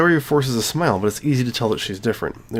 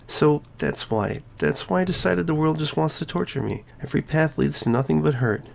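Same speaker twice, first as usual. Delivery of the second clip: put-on high girlish voice, hurt and pleading; a cheerful girl cracking open about her pain; Sayori's voice; 5 semitones higher than usual.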